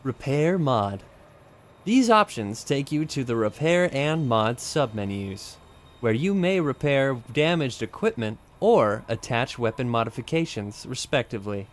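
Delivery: lightly projected commercial voice; punchy voice-over, easing off at the end; commercial read. Pretend. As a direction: announce the menu options like an ad read. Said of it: "I do it in my commercial read voice".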